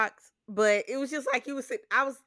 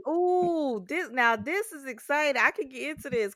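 mock excited viewer; 4 semitones higher than usual. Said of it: "And I was like".

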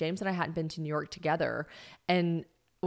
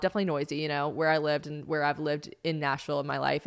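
ordinary talk, nothing marked

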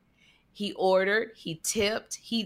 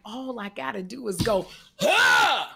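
pretend shout; slower than usual. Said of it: "I was just like".

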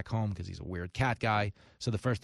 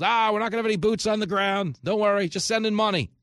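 higher, louder, falsely soothing; mock reassurance; 10 semitones higher, 6 dB louder than usual. Host mocking Washington's promises about Ukraine, sarcastic reassurance. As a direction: sarcastically parrot the official line.

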